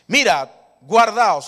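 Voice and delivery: loud, slow warning call; Jesus' loud warning. Acted. Jesus warning his disciples, loud and slow. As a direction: sound the alarm to them. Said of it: "Y Jesús les dijo".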